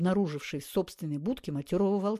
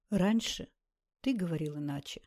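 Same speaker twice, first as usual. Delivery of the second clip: грустно. Acted. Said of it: "грустно заметила Наташа".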